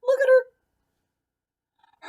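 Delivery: high, loud and drawn-out frightened scream; screamed in fright. Acted. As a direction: shriek it at the mirror, horrified. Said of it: "Then she screamed".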